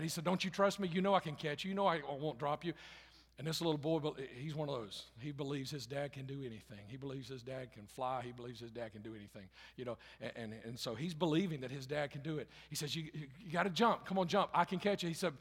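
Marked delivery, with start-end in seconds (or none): 0.2-2.7 calling up to son. Acted. Father calls up to trapped son. 13.0-15.1 urging shout. Acted. Father urges son to jump.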